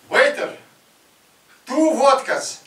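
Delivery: loud high Russian order; Russian customer. Retold or imitated. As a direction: call the waiter like a Russian.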